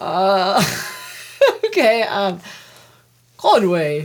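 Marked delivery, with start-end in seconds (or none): 3.4-4.1 put-on poor Irish accent. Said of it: "Give me an Irish accent".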